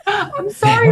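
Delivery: very high, mock-weepy apology; imitated tearful outburst. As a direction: apologize as if bursting into tears. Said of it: "burst into tears".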